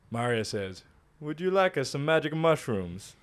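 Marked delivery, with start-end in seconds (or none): 1.2-3.1 creepy offer with a faint Italian lilt; a hint of Italian accent. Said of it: "doing the accent".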